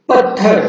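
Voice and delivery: पत्थर with the first syllable पत् hit hard and the थ held long; stressed pronunciation. Shown as a demonstration. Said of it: "जोर देकर बोलना पड़ता है". (पत्थर में पत् पर ज़ोर देकर)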